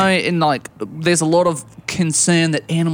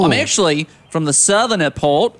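put-on Australian accent. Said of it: "by your accent that you're from Australia".

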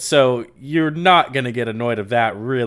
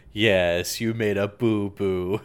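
mock condescension; 5 semitones lower, slower than usual. Voicing Hook to crying pirate.

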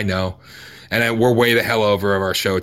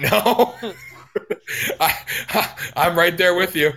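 kind gentle laugh; 6 semitones higher, slower than usual. Real, not acted. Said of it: "I'm in the same boat as you".

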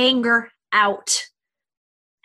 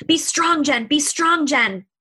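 self-pep talk; 3 semitones higher than usual. Retold or imitated. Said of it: "I would have stifled it down".

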